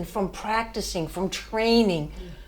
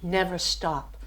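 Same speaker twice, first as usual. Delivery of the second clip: inner voice; 4 semitones lower, 7 dB quieter than usual. Retold or imitated. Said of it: "The desire kept saying".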